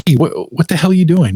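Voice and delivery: high, exasperated retold scolding; mild mock outrage from the annoyed sister; mock angry sister. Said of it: "she's mad at me".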